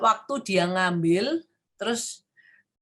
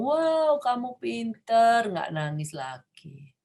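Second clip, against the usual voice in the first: praising mother; 3 semitones higher, much slower than usual. Retold or imitated. Mother hugging her child after the crying stops, tender. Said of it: "Dia ngomong".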